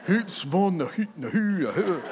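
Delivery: high, loud hammed-up Scottish burr; mock Scottish accent. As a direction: slip into an over-the-top Scottish voice. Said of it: "don't go into the accent".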